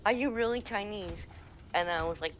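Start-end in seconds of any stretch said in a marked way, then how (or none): 0.0-1.3 lightly pitched-up fan voice; mildly put-on curious question; imitated fans. Storyteller repeats the fans' question, lightly imitated voice. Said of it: "and they're like".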